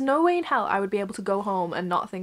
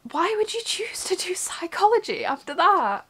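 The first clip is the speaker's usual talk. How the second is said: whisper; 8 semitones higher than usual. Real, not acted. Mocking her own choice.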